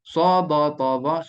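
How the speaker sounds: "Sa, ba, ta, za" in four punchy beats; heavy letters drilled rhythmically, starting loud on "Sa"; memorisation drill. Shown as a demonstration. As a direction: chant "Sa, ba, ta, za" as one rhythmic group. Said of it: "hafal macam ni".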